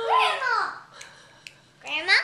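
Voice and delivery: loud call across room. Real, not acted. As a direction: call her from afar. Calling out to grandma.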